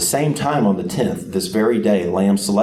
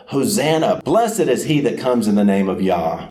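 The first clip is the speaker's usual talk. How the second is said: mock crowd yell; 4 semitones higher than usual. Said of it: "This is what they yelled".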